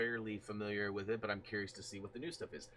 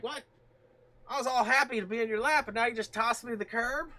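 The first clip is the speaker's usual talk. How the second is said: higher, louder mock-offended pet voice; voicing the cat; 13 semitones higher, 13 dB louder than usual. Streamer voicing his cat, hurt at being put down, mock-indignant. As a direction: play the cat as a hurt little diva. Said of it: "She's like".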